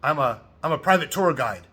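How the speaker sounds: put-on light Italian-accented tour guide; imitating an Italian guide's accent. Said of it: "in an Italian accent".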